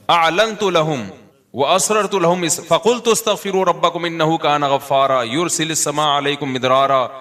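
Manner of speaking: slow, melodic Quranic chanting; Quran recitation. Acted. Quranic verse recited in sermon. (قرآن کی تلاوت کے انداز میں)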